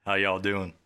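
country accent. Shown as a demonstration. Answering a friend's challenge, country accent. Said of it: "like, a country accent".

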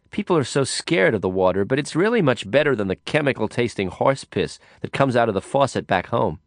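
chatty drunk woman, lightly voiced. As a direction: ramble on, half amused. Woman rambles about water.

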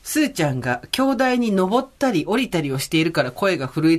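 earnest mock excuse in a narrator voice; mother explaining herself to the tape, a hint of defensive narration; mother's narration. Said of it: "ナレーション入れてる".

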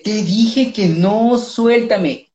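mock Llorona lament; telenovela wailing. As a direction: overplay the wail like a soap heroine. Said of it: "Ay, en Llorona, en Victoria Rufo".

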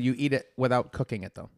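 talking while crunching; chewing crunchy noodles mid-sentence; crunching chips. Real, not acted. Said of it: "Sorry about the crunching".

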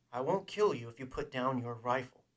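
firm, pressing promise; urgent bargaining. Acted. Man bargaining with his armed enemy, firm and urgent. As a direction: push the offer across firmly. Han bargains, Fett echoes him.

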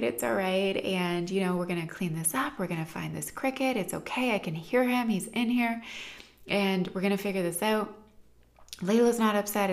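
retold comforting of an upset kid; soothing parent. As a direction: gently talk a child down.

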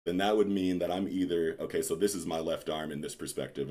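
talking while standing up; words spoken mid-rise from seat; getting up from chair. Real, not acted. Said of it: "hold on, let me stand up".

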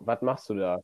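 "Was" said as "wat", ending in t; casual Rhineland "wat machst du da"; dialect "wat". Shown as a demonstration. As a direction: swap the s of "Was" for a t. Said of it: "statt das so dat sagt".

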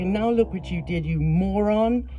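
high, heated accusing tirade; furious. A narrator's reading. Narrator berating the reckless driver, high and furious. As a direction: rage at him for killing the dog. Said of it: "I was panting with fury".

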